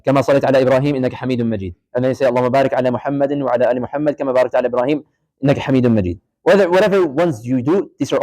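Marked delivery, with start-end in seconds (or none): 0.1-1.7 fast recitation. Shown as a demonstration. Teacher showing students the tashahhud, fast recitation. 2.3-6.2 rapid, lower prayer recitation; fast recitation. Shown as a demonstration. Teacher showing students the tashahhud, fast recitation.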